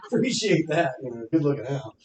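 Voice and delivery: dry sarcastic thanks. Retold or imitated. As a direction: thank them with fake gratitude. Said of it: "just real sarcastic with them".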